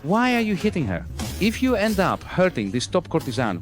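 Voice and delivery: high, sharp scolding; sharp rebuke. Acted. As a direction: snap at them to stop. Brothel keeper objects to the beating.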